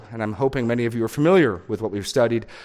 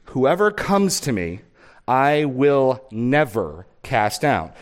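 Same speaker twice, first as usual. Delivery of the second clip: raised, earnest reading of Jesus' words; scripture reading. Acted. Pastor reading Jesus' promise aloud to church, proclaiming. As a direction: proclaim the verses to the congregation.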